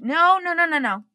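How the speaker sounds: firmly refusing husband's coaching idea; emphatic no. Retold or imitated. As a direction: shut the idea down fast. Rejecting husband's view.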